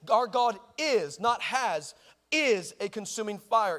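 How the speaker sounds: "is" drawn out and punched against "has"; stress on IS. Shown as a demonstration. Preacher correcting has to is, stress on "is". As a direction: lean slowly on "is", set it against "has".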